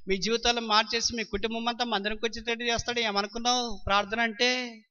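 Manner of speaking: speaking forcefully. Retold or imitated. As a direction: declare it boldly, no doubt left. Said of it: "అంత గట్టిగా మాట్లాడుతున్నావు". (ధైర్యంగా గట్టిగా)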